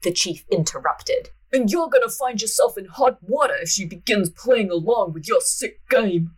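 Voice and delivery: a wobbly Gump-like chief voice; Forrest Gump-ish chief. Acted. Chief warns the inspector in a lightly Gump-like voice. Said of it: "I think I'm like Forrest Gump".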